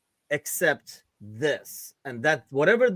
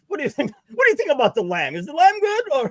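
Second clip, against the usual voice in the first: high excited questioning; eager customer; 10 semitones higher than usual. Retold or imitated. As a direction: ask like a keen diner. Mock eager customer at restaurant.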